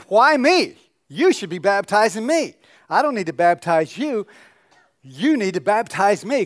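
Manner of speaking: high, loud astonished protest; John protesting. Acted. John protesting to Jesus, loud and high-pitched. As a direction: cry out in disbelief at being asked.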